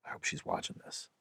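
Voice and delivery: breathy half-voiced whisper under the breath; whispered aside. Real, not acted. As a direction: slip in a sly whisper as an aside. Aside to absent therapist.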